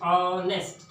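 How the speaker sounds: "ऑनेस्ट" with a long opening "o"; drawn-out first vowel. Shown as a demonstration. Teacher showing the vowel, "ऑनेस्ट" drawn out on "o". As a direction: split "ऑनेस्ट" into a held "o" and "nest". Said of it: "ये स्वर आ रहे हैं".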